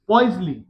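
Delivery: Poiseuille repeated as oiz-li with a falling end. Shown as a demonstration. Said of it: "ध्यान रखना इसको". (Poiseuille दोबारा बोलना)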